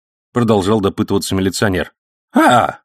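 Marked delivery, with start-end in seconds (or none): 2.3-2.8 high, loud faux-naive old man; feigned innocence. A narrator's reading. Old man playing innocent before the policeman, faux-naive. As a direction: play dumb, all innocence. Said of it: "скорчив наивное выражение лица".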